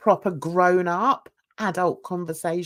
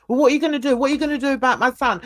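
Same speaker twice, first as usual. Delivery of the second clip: fast, louder mock demand; mocking the father; 4 semitones higher, 5 dB louder, much faster than usual. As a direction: rattle off his demand like a pushy parent. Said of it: "he'd rather do it all by email".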